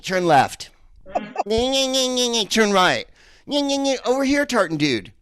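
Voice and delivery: high, loud, brash American tourist; mocking his own accent to a Scottish cabbie; sounding American to Scots. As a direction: play the overeager American in a cab. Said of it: "I must just sound like this to them".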